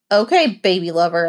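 a touch of a taunting snap; mild taunt, thrown out; snapping. Acted. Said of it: "I snapped".

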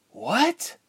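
very high, voiced hushed disbelief; loud stage whisper. A narrator's reading. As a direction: squeak out a shocked question, barely a whisper. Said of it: "Ilse whispered loudly".

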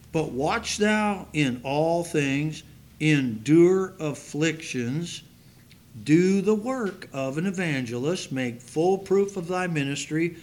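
slow, solemn Bible reading; measured pulpit reading of Second Timothy; scripture reading. Acted. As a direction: read the verse with weight. Reads scripture aloud.

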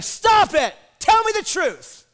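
high, loud exasperated demand; Ahab. Retold or imitated. Ahab to Micaiah who was playing around with him, angry shout. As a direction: shout it like a fed-up king. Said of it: "Ahab's like".

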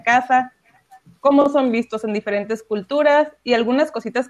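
bright radio announcer intro; radio host. Acted. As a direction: introduce the song on air.

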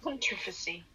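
soft "Controversy" stressed on the second syllable; attempted English pronunciation. Shown as a demonstration. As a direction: quietly test out "Controversy" as con-TROV-uh-see. Listener tries the same odd pronunciation.

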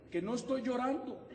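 half-laughing denial of tears; laughing mock wife. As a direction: deny the tears through a laugh. (negación entre risas de la esposa)

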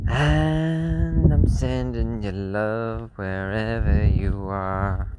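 slow, tender goodbye; warm sign-off. Real, not acted. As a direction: stretch it out with love. Sign-off sending love.

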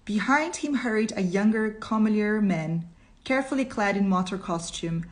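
measured, expressive storytelling; deliberate reader's voice with lifted key words; story narration. A narrator's reading. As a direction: read it out as dramatic narration.

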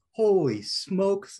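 high, slow, drawn-out gasp of wonder; wide-eyed holy smokes; amazed exclaim. Retold or imitated. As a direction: let the awe stretch out high and loud. Amazed at fall colors.

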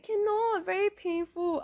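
high-pitched mock wail of pain; retold painful crying. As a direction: whimper it high, acting out the hurt. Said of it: "I was crying so badly".

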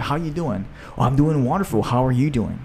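cheerful greeting. Retold or imitated. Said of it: "they're like".

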